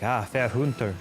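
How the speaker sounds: lightly imitated thick old Cockney accent; Elaine the Crow. Quoting a Bloodborne character to chat, mock Cockney. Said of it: "like, Cockney accent".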